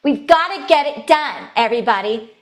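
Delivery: high, loud, strained commander; high larynx. Shown as a demonstration. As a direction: push out a grating high-pitched rallying order. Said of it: "with a high larynx and a high pitch".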